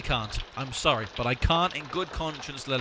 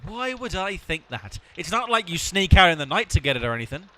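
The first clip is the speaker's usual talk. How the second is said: sarcastic; 6 dB louder than usual. Acted. Sarcastic jab at drinker.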